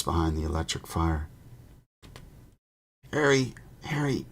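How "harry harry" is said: high, urgent whisper. Acted. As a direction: whisper his name through the wall. Calling softly through the boards.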